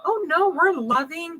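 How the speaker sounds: a spirit pretending to be gentle and loving; fake calm spirit. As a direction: lull them with a falsely soothing coo. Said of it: "they're all like".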